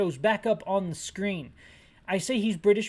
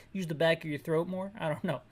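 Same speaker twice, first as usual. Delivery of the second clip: ordinary delivery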